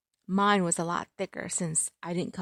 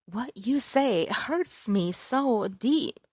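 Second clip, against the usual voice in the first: mock hurt; 4 semitones higher, much slower than usual. The speaker mocks being hurt again.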